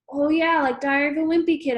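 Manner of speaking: high and loud, lit up; excited. A narrator's reading. Excited recognition.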